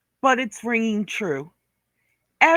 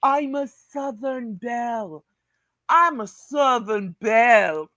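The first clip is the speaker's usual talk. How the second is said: sneering mock of a self-styled Southern Belle, the second line shouted; mocking imitation. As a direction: parody her prissy boast, ending in a shout. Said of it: "No, you live in Georgia".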